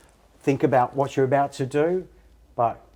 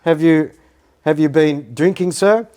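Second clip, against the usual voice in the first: imitating the police officer; 4 semitones higher, 5 dB louder than usual. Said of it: "the police person said to me".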